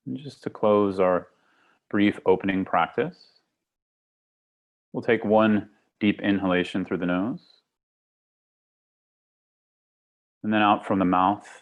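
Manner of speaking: calm meditation guide with long pauses; guided meditation. Acted. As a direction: lead them gently into the breath, unhurried. Leads a guided breathing meditation.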